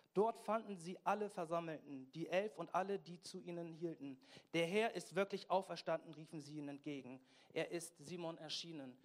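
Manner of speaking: emphatic, projected scripture reading; Bibellesung. Acted. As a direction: read the Gospel aloud to a congregation with punchy stresses. Reads the Bible passage aloud. (eindringlich vorgetragene Bibellesung)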